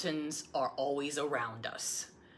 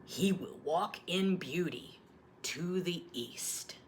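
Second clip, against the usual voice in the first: blessing. Retold or imitated. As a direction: bless the newborn gently. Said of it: "in her arms and said".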